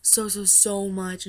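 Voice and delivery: mildly gushing, stretched-out so's; retold freaking out. Fan telling the star of their love, retold gushing. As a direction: gush a little, slowing on each so. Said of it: "I legit started freaking out".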